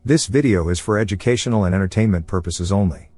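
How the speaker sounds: synthetic text-to-speech robot voice. Acted. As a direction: read it like a computer robot voice. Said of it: "this robot voice encapsulating my personality".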